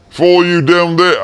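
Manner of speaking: put-on high-pitched, botched Kiwi or Aussie accent; failed Aussie-Kiwi accent. Cook signs off to Kiwis and Aussies, botched Antipodean accent. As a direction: take a bad stab at an Aussie accent. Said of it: "I can't do either the Kiwi or the Aussie accent".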